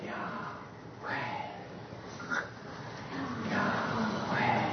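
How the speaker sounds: Yahweh breathed in, airy and soft. Shown as a demonstration. Preacher showing the congregation how to breathe Yahweh. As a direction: say Yahweh like an inhale. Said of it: "say it how it was kinda meant to be said".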